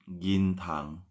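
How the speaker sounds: "gintang" in two syllables, rising at the end; pronunciation demo. Shown as a demonstration. Teacher gives the Thai word for bank, clear "gintang". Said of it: "G I N ya".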